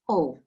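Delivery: "O" with only a very soft W. Shown as a demonstration. Teacher showing students the particle, soft W on "O". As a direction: say "O", barely any W in front. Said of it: "it's a very soft W".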